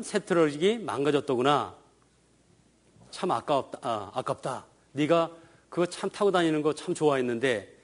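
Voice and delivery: soft, sorry-for-you father; gentle sympathy. Shown as a demonstration. Father consoling son over broken toy, soft and gentle. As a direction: soothe the child over his broken truck. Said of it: "이렇게 읽어주면".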